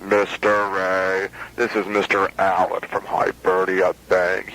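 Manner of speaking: low, slow tough-guy Marine impression; butch Marine Corps voice. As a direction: mimic a gruff Marine sergeant, low. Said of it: "butch Marine Corps voice".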